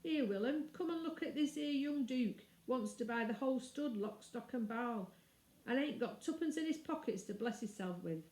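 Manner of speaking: a sneering yard hand poking fun; mocking ostler. Ostler shows off the boy.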